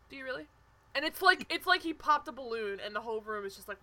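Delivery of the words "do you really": understated comeback after the scream. Retold or imitated. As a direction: lightly imitate an unbothered man deflating the room. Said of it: "I'm gonna do my best, like, C T voice".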